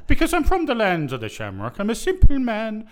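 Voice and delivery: a hint of an Irish brogue; Irish accent. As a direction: lightly play the simple Irishman. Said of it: "answer in your Irish accent".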